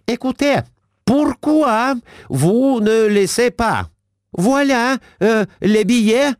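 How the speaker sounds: high, halting broken French; a Russian lady fumbling French. A narrator's reading. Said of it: "обратилась она к метрдотелю". (высокий ломаный французский)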